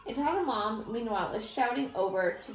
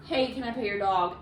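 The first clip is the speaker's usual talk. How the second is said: polite ask. Shown as a demonstration. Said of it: "you have to ask".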